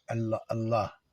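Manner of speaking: Allah, Allah with no vowel after the final h; Allah ending clean on the h, nothing tacked on. Shown as a demonstration. Teacher shows students Allah without a final E. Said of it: "vous ne prononcez pas le E à la fin".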